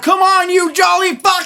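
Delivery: very high, tiny, wicked elf voice. Retelling a scene where a little zombie elf speaks to Santa Claus, in a little evil elf voice. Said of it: "His little miniature elf evil voice".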